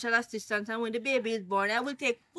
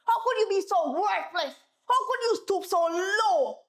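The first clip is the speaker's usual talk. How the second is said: higher, bitter accusation; disgusted reproach; 6 semitones higher than usual. Acted. Wife berating her husband, higher and bitter. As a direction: shame him with each question.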